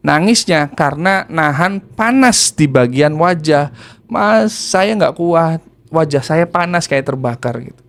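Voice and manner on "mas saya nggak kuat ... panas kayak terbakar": retold crying. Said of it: "dan nangis".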